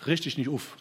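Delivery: "Richt dich nicht auf" in Hessian dialect, "auf" said as "uf"; light Hessian pronunciation, "auf" turned into "uf"; Hessian accent. Shown as a demonstration. Preacher playfully quoting his slogan in Hessian dialect, Hessian accent. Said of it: "wie man das auch hessisch ausspricht".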